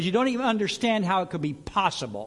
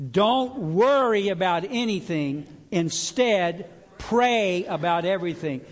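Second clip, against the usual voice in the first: louder, slow recitation with the crowd; group recitation; 3 semitones higher, 6 dB louder, slower than usual. Shown as a demonstration. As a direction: lead the room through it slowly. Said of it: "Let's say it like that".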